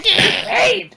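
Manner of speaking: very high, loud goblin yelp; goblin shout. Acted. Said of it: "Something like that".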